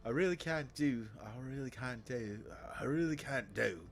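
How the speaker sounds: trying out an upper-class English accent; upper-class English accent attempt. Shown as a demonstration. Streamer practising accents, tentative upper-class English. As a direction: feel your way into upper-class English vowels. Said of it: "that's a little too low class".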